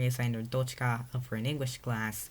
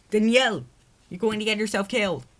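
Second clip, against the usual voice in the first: high, loud frightened plea; fearful plea; 10 semitones higher, 10 dB louder than usual. Acted. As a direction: beg him in fear to stay safe. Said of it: "Maria replied fearfully".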